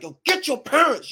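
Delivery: put-on high-pitched holler at a kid; mock yell without full volume; retold hollering. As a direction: holler it, but held back. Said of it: "I started hollering, hollering at this kid".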